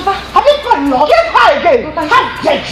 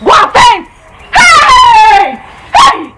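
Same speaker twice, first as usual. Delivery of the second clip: high, worked-up exclamations; excited outcry; 5 semitones higher, 3 dB louder, much slower than usual. Acted. Bringing sister shocking news, high excited cries. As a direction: whoop with uncontainable news.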